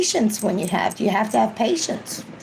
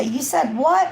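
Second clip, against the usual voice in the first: stern parent; 6 semitones higher, slower than usual. Retold or imitated. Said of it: "and you say".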